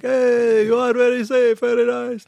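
put-on high, friendly Egyptian accent. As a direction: imitate an Egyptian driver's accent. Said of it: "he's from Egypt or something".

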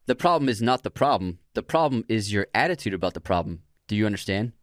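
put-on British accent. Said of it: "I'm trying to do British".

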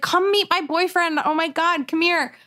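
high, gushing imitation of a friend; excited urging. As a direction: eagerly pull someone over to meet him. Excited friend urging her over.

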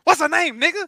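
fed-up shout at a friend who won't answer; exasperated yell. Retold or imitated. Yelling at cramped friend.

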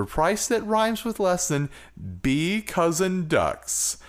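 a hint of a spaceman dragging out the rhyme; moon voice. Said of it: "I think that was the moon voice".

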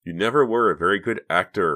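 insisting. A narrator's reading. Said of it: "Reva insisted".

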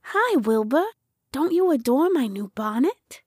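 lightly voiced vain chicken, pitched a bit high; a hint of a lady hen showing off; preening hen. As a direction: greet him, then fish lightly for admiration.

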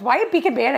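"speak in Spanish" as "peak in Panish"; child's missing S's. Retold or imitated. Co-host echoes the son, "Spanish" said as "Panish". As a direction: drop the first S of "speak" and "Spanish". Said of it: "he couldn't say his S's".

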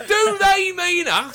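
high, slow, drawn-out mock indignation; mock-indignant Derek Jameson cry; Derek Jameson impression. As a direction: ham up the wounded tabloid outrage, slowly. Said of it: "remember Derek Jameson?".

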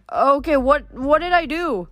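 alarmed. Acted. Leo alarmed by drawn swords.

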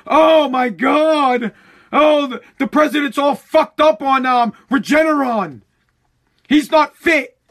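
hammed-up parody of a fretting politician; mocking Nancy. Mimicking Nancy complaining that the president is unfit, mock whine. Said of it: "Nancy's already out there bitching and moaning".

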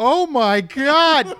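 drawn-out high gasp of shock; slow, very high horrified cry. Retold or imitated. Mock shocked mom.

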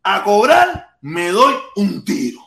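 slow quoted read. Retold or imitated. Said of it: "Lo dijo Luis Soler".

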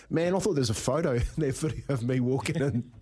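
laughing through the words. Retold or imitated. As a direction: giggle through it. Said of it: "burst out laughing, going".

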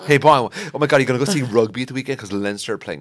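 mock South Dublin rugby fan; posh South Dublin. Teasing a friend about rugby, posh South Dublin accent. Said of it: "like a posh South Dublin guy".

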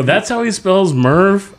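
high, slow, disbelieving "That's how he spells Murph?"; retelling his own baffled reaction, stretched and high; incredulous question. Retold or imitated. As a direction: play up the disbelief, pitch way up. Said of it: "And I go".

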